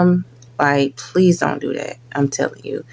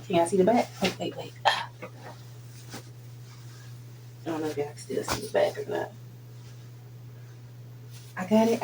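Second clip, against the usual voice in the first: much softer, distant from the microphone; away from the mic; 16 dB quieter, faster than usual. Real, not acted. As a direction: call back from a few steps off. Stepping away to show shirt back.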